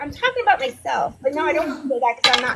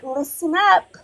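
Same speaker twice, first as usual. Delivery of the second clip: loud mock call, climbing higher; mimicked demand; 4 semitones higher, 7 dB louder than usual. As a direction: imitate her demanding attention, louder the second time. Imitating her ear-tapping demand for attention.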